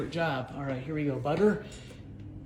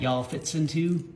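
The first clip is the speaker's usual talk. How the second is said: slow, teasing Southern drawl; amateur attempt at a Southern accent; imitation Southern accent; slower than usual. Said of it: "Do not try to do a Southern accent".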